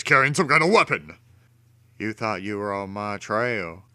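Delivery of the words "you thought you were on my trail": softer, menacing villain snarl; villain gloating over his trap. A narrator's reading. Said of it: "Two-Face snarled".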